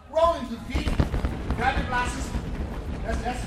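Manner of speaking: big, loud instructor commands; loud coaching call. Real, not acted. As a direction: call it out loud over the crowd. Coaching the crowd loudly.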